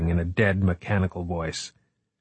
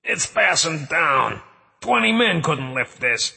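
high, slow desperate shout; 8 semitones higher, slower than usual. Acted. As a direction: cry out for help. Trapped, calling for help.

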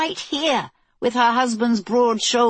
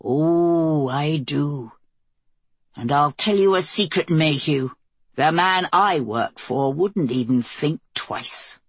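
put-on Southern accent; 3 semitones lower, slower than usual. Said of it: "his dark eyes blazed".

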